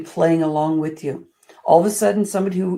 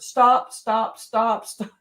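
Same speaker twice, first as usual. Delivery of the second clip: inner voice saying stop; 3 semitones higher, much slower than usual. Retold or imitated. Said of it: "sometimes I hear this word".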